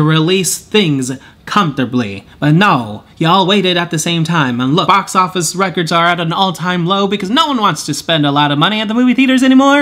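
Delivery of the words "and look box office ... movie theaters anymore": fast, pumped-up announcer read. Real, not acted. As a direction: rattle it off like a TV announcer. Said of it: "talking like a TV announcer".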